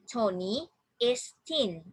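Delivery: slow, measured model sentence; teacher reading very slowly. Shown as a demonstration. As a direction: draw each word out for learners to copy. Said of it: "Please repeat after me".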